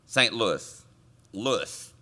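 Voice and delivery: Louis with the final S sounded; correct local pronunciation. Shown as a demonstration. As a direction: say Louis as LOO-iss. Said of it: "what's the correct pronunciation".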